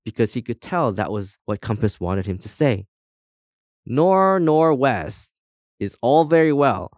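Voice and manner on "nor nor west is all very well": lifted, declaimed motto with grand pauses; proud. A narrator's reading. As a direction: recite your own saying grandly. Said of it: "said Compass proudly".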